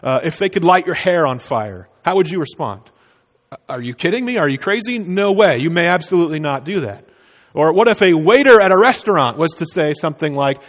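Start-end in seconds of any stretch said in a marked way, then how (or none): 3.7-7.0 outraged refusal. Pretend. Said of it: "respond to something really outrageous".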